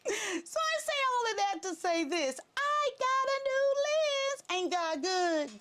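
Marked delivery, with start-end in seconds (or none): 2.6-5.6 triumphant reveal. Real, not acted. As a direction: announce it proudly. Triumphant announcement.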